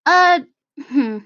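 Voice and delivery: hesitant, stumbling sheepish confession. Acted. Tally returns a bottle to Sammy, lightly sheepish. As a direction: hedge and restart, a touch sheepish. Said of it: "she kind of sheepishly is holding it".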